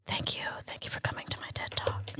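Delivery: fast, soft unvoiced whisper; ASMR whisper. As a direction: whisper a smug sign-off. Ends ASMR bit whispering.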